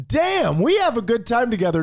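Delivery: high, bright mock cheer; high mock buddy voice. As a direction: ham up the happy buddy. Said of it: "be like".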